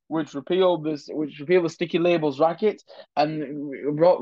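a light put-on accent of a 1970s British Labour leader, not far from his own voice; Harold Wilson accent. Shown as a demonstration. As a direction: read the list lightly in that politician's accent. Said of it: "Let me do it in his accent".

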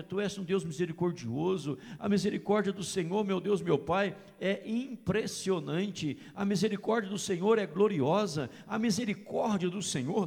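normal talking voice

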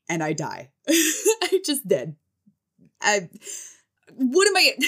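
high, laugh-broken disbelief; laughing helplessly. Real, not acted. Telling viewers how she died laughing, high and giggling. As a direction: crack up mid-sentence. Recalls teacher's absurd act.

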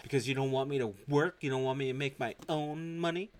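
indignant questions rising at the end; indignant retort. Retold or imitated. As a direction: act out an affronted wife. Acted wife arguing with husband.

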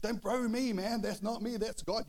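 high, loud protest; emphatic retort. Retold or imitated. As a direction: re-enact setting your brother straight. Retold heated retort to brother.

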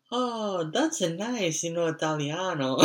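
high-pitched, delighted old-man imitation; mock a grandfather suddenly charmed; put-on high voice, pleasantly impressed; enamored grandfather. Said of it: "enamored by the fact that he knows Italian".

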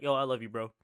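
offhand bro-style I love you; casual bro. Shown as a demonstration. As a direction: toss it off casually to a buddy. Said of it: "it's different to say, like".

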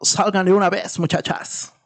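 a nasal, broken Spanish shout. Retold or imitated. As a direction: call them out in a nasal gringo voice. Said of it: "en un español gangoso". (español gangoso)

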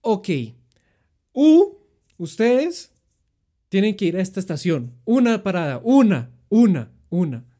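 imitating the policewoman. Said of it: "La señora dijo como".

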